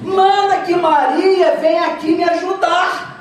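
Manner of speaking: high-pitched, hammed-up complaint; Marta. Agitated Martha demands that Jesus send her sister, mock complaint. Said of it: "eu estou dando um colorido meu".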